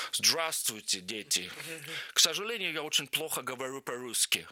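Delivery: lightly voiced émigré archbishop, mock broken Russian; a hint of an old foreign priest joking about his Russian; funny old archbishop. Archbishop greets the students with a joke, lightly imitated. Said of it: "он очень смешно заходит на кафедру и говорит".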